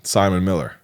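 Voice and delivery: Simon Miller with a hard American R; American accent. Shown as a demonstration. British actor trying his name for coach, American accent. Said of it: "say it like I would say it".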